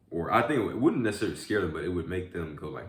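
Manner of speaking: usual speaking voice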